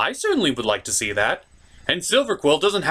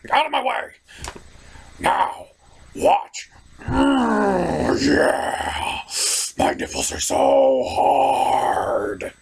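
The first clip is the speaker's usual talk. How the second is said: posing muscleman; 6 semitones higher, much slower than usual. Acted. Acted posing character, breathy moans.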